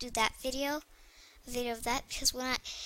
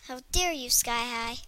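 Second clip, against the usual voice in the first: mock offended, aloud. Girl telling off the Sky High game, mock indignant. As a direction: scold the game directly, half-joking. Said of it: "say it actually to the Sky High".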